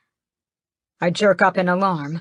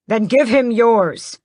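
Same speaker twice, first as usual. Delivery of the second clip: gasp; 6 semitones higher, 7 dB louder, slower than usual. A narrator's reading. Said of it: "Mother gasps".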